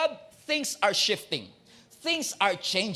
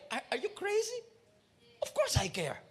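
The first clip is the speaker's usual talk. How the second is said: Jesus indignant; 8 semitones higher, 7 dB quieter than usual. Acted. Jesus answers the accusing disciples.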